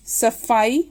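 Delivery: सफाई said "safaai" with an f; lip-on-teeth f in सफाई; dotted f. Shown as a demonstration. Teacher gives example of dotted letter, सफाई with f. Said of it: "फ के नीचे".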